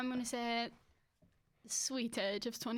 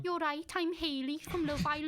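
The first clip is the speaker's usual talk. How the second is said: put-on dopey Scouse girl voice; Haley impression; 4 semitones higher than usual. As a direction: play a ditzy Liverpool reality star. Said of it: "do your Haley".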